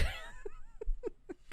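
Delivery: squealing silent laugh; high wheezing laugh; high breathless laugh. Real, not acted. High laugh after Lunchables.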